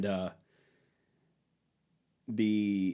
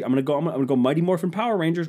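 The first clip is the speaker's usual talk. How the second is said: fast, higher, rushed "Mighty Morphin Power Rangers"; hyped up; 6 semitones higher, much faster than usual. Real, not acted. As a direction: fire it off like a battle cry, racing the words. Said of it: "I'm gonna change it".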